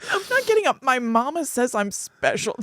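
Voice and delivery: lightly doing Forrest Gump; a hint of a simple Southern man; Forrest Gump impression.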